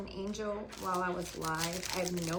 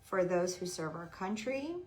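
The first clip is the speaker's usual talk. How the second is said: prayer reading; 3 semitones lower than usual. Real, not acted. Reads a prayer tag aloud.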